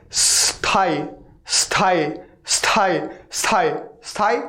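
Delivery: स्थाई opening on a drawn s hiss that runs straight into थाई; pronunciation drill. Shown as a demonstration. Teacher drilling स्थाई for students, demonstrating a leading s sound. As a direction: say स्थाई with no vowel before the s, repeated separately. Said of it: "उसमें थाई जोड़ दीजिए".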